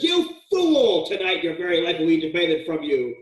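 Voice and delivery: God rebuking the rich fool, a harsh cry; harsh rebuke. Retold or imitated. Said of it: "And then we get kind of harsh".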